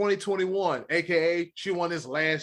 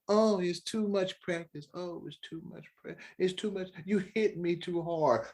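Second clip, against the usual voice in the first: mock complaining; 6 dB quieter than usual. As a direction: imitate players moaning about tough practice. Mocks players complaining about hard practice.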